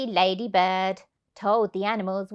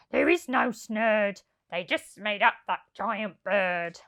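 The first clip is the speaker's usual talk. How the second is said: complaining thief. Acted. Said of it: "Then Len complained".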